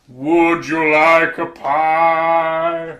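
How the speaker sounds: slow, loud mock Russian accent; hammed-up Russian officer offering a pie. Retelling a comedy sketch, a slow loud Russian officer accent. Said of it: "a Russian officer going".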